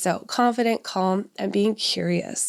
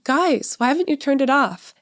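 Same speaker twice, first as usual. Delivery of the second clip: mock fed-up mum losing patience; frustrated parent; 6 semitones higher than usual. Mom mocks herself getting exasperated with kids, high and frustrated. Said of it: "start yelling at them".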